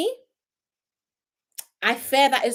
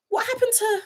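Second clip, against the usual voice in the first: laughing; 13 semitones higher than usual. Real, not acted. Laughing at non-voters.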